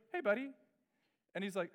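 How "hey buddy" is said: eager greeting. Retold or imitated. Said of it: "I get kind of excited".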